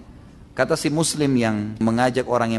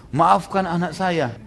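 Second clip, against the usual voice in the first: pleading mother; 4 semitones higher, much slower than usual. Acted. Mother begs forgiveness for son.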